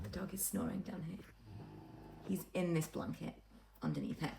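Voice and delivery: hushed, not to wake him; quiet. Real, not acted. Dog snoring beside her.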